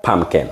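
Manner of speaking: পামকেন ending in "ken", falling; পামকেন as a careful teacher's model; corrected pronunciation. Shown as a demonstration. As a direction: say পামকেন with an e in the last syllable. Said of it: "এর মতো".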